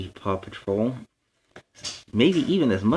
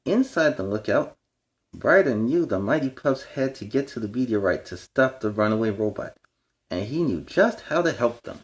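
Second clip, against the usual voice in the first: bright, storybook read-aloud; reading to children. A narrator's reading. Reading a picture book aloud to young fans. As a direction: read it like bedtime to little kids.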